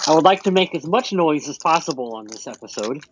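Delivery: talking while chewing crackers; words round a mouthful; mouth full. Real, not acted. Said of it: "what are you eating over there?".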